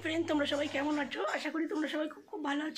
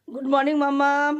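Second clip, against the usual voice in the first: calling out; 3 semitones lower, 7 dB louder than usual. Real, not acted. Calling mother awake.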